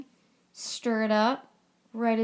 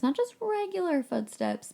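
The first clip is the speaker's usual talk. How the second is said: emphatic; 9 semitones higher than usual. Real, not acted. Emphatic aside.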